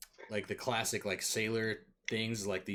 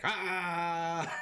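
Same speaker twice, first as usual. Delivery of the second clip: dwarf battle cry, higher; gruff gravelly dwarf voice; 8 semitones higher than usual. Acted. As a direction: yell it like a dwarf. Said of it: "you just hear this dwarven voice go like".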